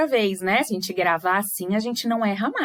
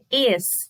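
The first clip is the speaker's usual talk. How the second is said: "Exceção" em EX, CE, ÇÃO com longas pausas; separação de sílabas; much faster than usual. Shown as a demonstration. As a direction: dite "Exceção" uma sílaba de cada vez. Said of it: "Vamos ver como é que separa?". ("Exceção" silabado, bem espaçado)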